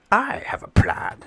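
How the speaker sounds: high, whispered scheming voice; sneaky henchman. Acted. Henchman offering his admiral a plan, sly whisper. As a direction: hiss it like a sly plotter.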